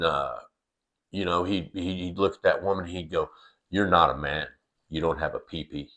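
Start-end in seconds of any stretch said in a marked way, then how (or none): 3.7-5.9 lightly voiced toddler, looking down on her; a hint of a smug little boy; dismissive toddler. Mild smug toddler telling a woman she lacks one. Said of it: "he'd say it like that".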